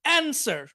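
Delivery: অ্যানসার with "an" as in "ant"; alternative pronunciation. Shown as a demonstration. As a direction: open front "a" in অ্যানসার, American style. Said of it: "এটার একটা উচ্চারণ আছে".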